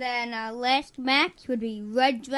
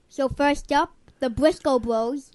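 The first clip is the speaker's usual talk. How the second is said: restarted louder, into the mic; 5 dB louder than usual. Real, not acted. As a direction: speak up into the microphone. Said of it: "Talking to the mic".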